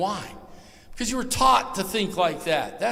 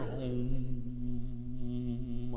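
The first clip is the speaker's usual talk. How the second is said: mock meditation hum; 5 semitones lower, 4 dB quieter than usual. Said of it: "Ain't sitting there".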